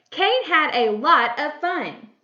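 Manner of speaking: slow, loud, emphatic reading; exclamation. Shown as a demonstration. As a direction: exclaim it with measured enthusiasm. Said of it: "This is an exclamation".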